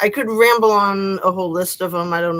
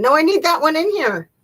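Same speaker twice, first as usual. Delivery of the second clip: raised call; 10 semitones higher, 7 dB louder than usual. Real, not acted. Calling out to family.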